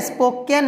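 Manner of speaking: स्पोकन ending "-ken"; an "eh" vowel closing स्पोकन; wrong pronunciation. Shown as a demonstration. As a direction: say स्पोकन as "spo-ken", the rejected way. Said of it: "स्पोकन नहीं है".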